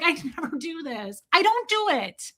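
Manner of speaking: very high mock-hysterical whine; freaking out. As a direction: squeal it in a hammed-up meltdown. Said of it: "started, like, freaking out".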